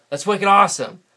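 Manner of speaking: proud New England slang; New England slang demo. Shown as a demonstration. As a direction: sell the New England "wicked awesome" with gusto. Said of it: "we say wicked instead of the word very".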